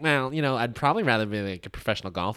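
snooty. Retold or imitated. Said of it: "They do that snooty".

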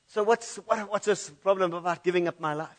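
imagined Peter protesting. Retold or imitated. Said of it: "maybe he would have said something like this".

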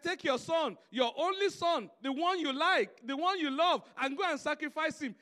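loud, firm divine command; a loud, firm voice of God giving Abraham an order. Retold or imitated. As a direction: proclaim it as God's command. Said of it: "He said".

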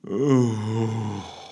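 forlorn overdone sigh; melodramatic sigh. A narrator's reading. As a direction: sigh like a tragic actor. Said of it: "forlorn and overly melodramatic sigh".

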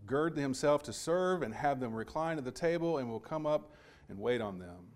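flowing, emphatic Bible reading aloud; scripture reading. Acted. Preacher reads Luke twelve to congregation, scripture reading. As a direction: read the passage out with firm stresses.

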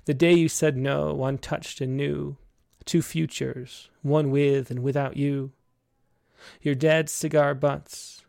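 slow, measured poetry recital; poem reading. Acted. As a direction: read each image slowly. Reads a poem aloud.

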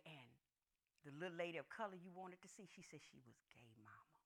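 low, hushed confiding daughter; quiet. Retold or imitated. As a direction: reveal it softly, fading to almost nothing. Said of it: "they was quiet".

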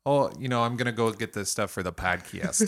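put-on light Toledo accent on "podcast". Podcaster mimicking own speech heading downstairs, Toledo accent. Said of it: "my Toledo accent came out".

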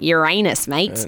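laughing through "Uranus, mate" in broad Australian; broad Aussie "Uranus, mate" with a laugh; Australian ocker voice; broad Australian accent. Pretend. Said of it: "really broad Australian nasal accent".

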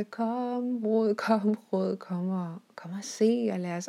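high, loud, jubilant call across the floor; excited calling out. Retold or imitated. Calling Rod to come see the new floor, jubilant and loud. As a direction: call her over, bursting with joy.

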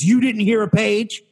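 high, loud mock disbelief; imitated confrontational challenge. Clerk challenging a waiting customer, mock confrontational. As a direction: get in their face with the question. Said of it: "she starts, like, getting in my face".

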